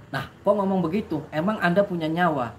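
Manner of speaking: mildly confrontational comeback, pitched a bit up; retold indignant retort. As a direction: act out a young man's challenge. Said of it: "saya langsung nyolot". (menirukan nada nyolot)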